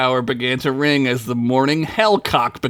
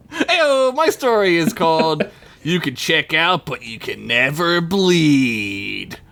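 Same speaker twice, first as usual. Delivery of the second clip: theatrical title announcement. Acted. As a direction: announce it grandly, stretching the last word. Announcing own story title theatrically.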